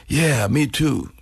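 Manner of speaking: slow, laid-back drawl of a fellow musician; imitating Billy Gibbons. Host imitates guitarist answering a fan, slow laid-back drawl. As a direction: stretch it out, easygoing and dry. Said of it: "that's the way he talks".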